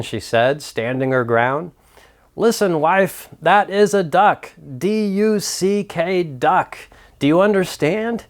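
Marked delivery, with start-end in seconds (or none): 2.4-8.3 mock-angry husband, higher pitched. Husband insisting to his wife it is a duck, mildly angry. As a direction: lay down the law, a hint of a hammed-up temper. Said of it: "he said with anger".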